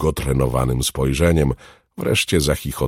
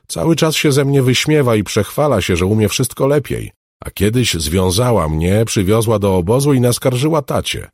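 put-on high, louder child's complaint; aggrieved little girl; 9 semitones higher, 7 dB louder than usual. Girl complains to the alchemist about her rival, aggrieved. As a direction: pour out a girlish grievance.

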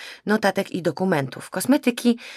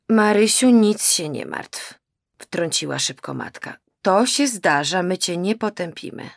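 slow, raised, soothing motherly voice; reassuring mother; 3 semitones higher, 4 dB louder than usual. Acted. Mother soothes daughter she thinks drinks, slow and reassuring. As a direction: comfort her slowly, a bit too sweetly.

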